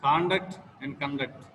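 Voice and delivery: first "Conduct" stressed on first syllable, second "conduct" on second syllable; shifting word stress. Shown as a demonstration. Teacher shows word stress, "conduct" said with two stresses. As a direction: move the stress from CON to DUCT in "conduct". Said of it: "one example for word stress".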